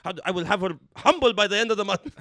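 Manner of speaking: loud, jokey mock Arab accent. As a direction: boast like a macho uncle. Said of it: "Arab accent".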